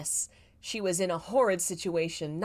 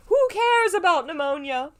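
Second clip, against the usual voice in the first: high, loud, mocking sing-song; mock carefree; 11 semitones higher, 10 dB louder than usual. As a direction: toss it off like nothing matters. Reader mocks the character's attitude.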